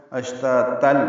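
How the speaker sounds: اشتاتل with taa merged into the following laam; joined form. Shown as a demonstration. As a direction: link اشتاتل straight into the next word. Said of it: "ملانا ہے تو". (وصل میں اشتاتل)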